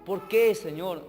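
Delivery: soft, low, helpless pleading; subdued, mildly tearful acted prayer. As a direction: plead quietly with God, as if near tears. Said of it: "así, con lágrimas, a decirle".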